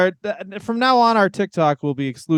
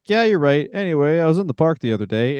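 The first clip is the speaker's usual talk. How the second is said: smooth comic pivot. Pretend. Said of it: "and you're like".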